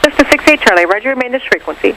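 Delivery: air traffic control radio. Real, not acted. Tower reply over the radio.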